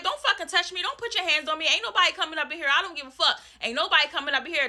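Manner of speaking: high, angry yell, fast at the end; don't let anyone touch you; furious yelling. Retold or imitated. Woman shoves back landlord at door, high angry yell. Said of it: "I'm like".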